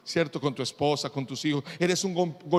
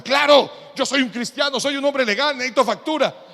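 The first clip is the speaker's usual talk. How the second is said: louder, higher boast of being a Christian; proud insistence; 4 semitones higher, 4 dB louder than usual. Retold or imitated. Believer proudly tells the shop clerk he is legal. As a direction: puff up and declare it proudly.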